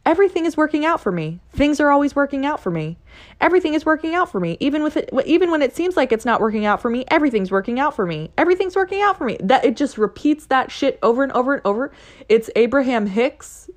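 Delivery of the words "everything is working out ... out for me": high, fast, bright chanted affirmation; higher and fast, repeating it with glee; upbeat affirmation. Retold or imitated. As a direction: rattle it off like a cheerful mantra. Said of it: "and this affirmation says".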